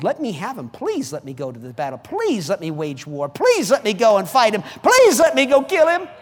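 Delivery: acted eager pleading, from hushed to insistent; building plea. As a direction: beg harder with each please. David begging to fight, building.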